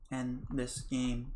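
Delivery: very slow, drained plea; broken plea. Acted. Karma pleads slowly for the game to end. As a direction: let it drag out, empty.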